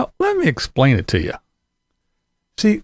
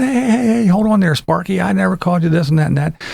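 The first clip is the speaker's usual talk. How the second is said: retold own reply; 2 semitones higher, faster than usual. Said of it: "and I said".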